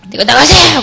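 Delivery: high loud yell; shouting. Retold or imitated. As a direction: shout the order out. Retold yell.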